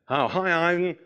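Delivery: lightly attempted American accent. American boss greeting an employee back from holiday, attempted American accent. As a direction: have a rough go at an American accent. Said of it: "well, I'll do the accent".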